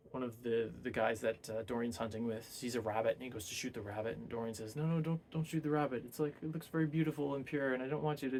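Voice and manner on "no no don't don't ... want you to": higher-pitched mild pleading; lightly acted urgent objection, voice lifted; retold plea. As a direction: plead to stop him, half-acted. Retold plea to spare the rabbit.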